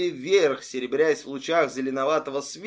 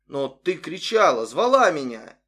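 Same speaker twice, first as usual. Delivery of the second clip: bewildered; 4 dB louder than usual. Acted. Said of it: "растерянно произнесла женщина".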